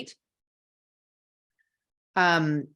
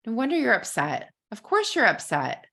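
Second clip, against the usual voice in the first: empathetic husband; 5 semitones higher than usual. Pretend. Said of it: "if he would say".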